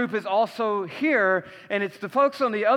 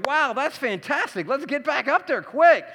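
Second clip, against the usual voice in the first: mock delight; 5 semitones higher than usual. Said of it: "the older brother is gonna go".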